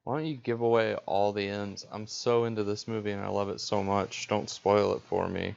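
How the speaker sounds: mock-serious complaint, slightly subdued; understated sarcastic gushing; deadpan sarcasm. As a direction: feign sincerity with a straight face.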